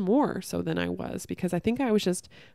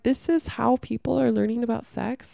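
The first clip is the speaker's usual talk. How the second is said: louder, disbelieving question; outraged disbelief; 4 semitones higher, 3 dB louder than usual. Retold or imitated. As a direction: throw it out in shocked outrage. Disbelief at sex-ed videos.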